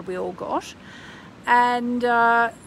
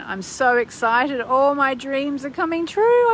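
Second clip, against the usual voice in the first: excited affirmation; 5 semitones higher, 5 dB louder than usual. Pretend. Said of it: "do a little affirmation".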